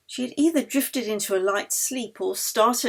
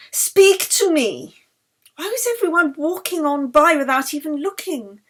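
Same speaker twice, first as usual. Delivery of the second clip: panicked plea; 7 semitones higher, 6 dB louder than usual. A narrator's reading. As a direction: beg her friend to answer, frightened. Yeli panics over collapsed friend.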